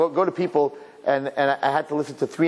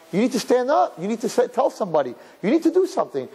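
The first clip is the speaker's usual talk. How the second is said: urgent exhortation; 9 semitones higher than usual. Real, not acted. Rabbi urges action.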